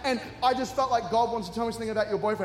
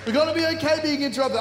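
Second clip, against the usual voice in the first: quicker, still loud restatement; fast repeat; 7 semitones higher, 6 dB louder, faster than usual. Real, not acted. Preacher repeating his point to the congregation, fast. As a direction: rattle it off again quickly.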